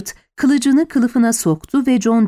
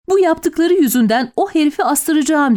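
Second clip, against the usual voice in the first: a high raised threat; shouting; 6 semitones higher than usual. A narrator's reading. Amy yells at her husband, raised and higher. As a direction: yell it in his face. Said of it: "diye bağırdı Amy".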